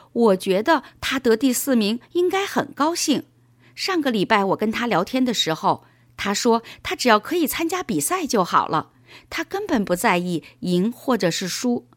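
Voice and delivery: put-on young boy explaining. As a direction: explain it to dad with a touch of boyish liveliness. Narrator voices boy Paul explaining. (略带童声地向爸爸解释)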